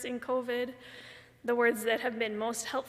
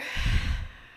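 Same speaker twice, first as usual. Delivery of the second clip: emotional sigh; 5 dB louder than usual. Real, not acted. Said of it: "I'm gonna get emotional".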